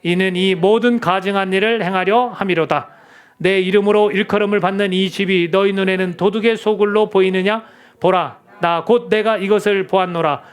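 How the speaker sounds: measured, even-toned scripture reading. Acted. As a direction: lead the congregation in reading the verse aloud. Leads congregation reading scripture aloud. (또박또박 일정한 어조로 성경 봉독)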